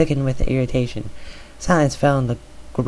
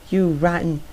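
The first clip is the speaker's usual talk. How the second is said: high-pitched mock shriek; 5 semitones higher than usual. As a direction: fling it at her sister. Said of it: "Arya shrieked".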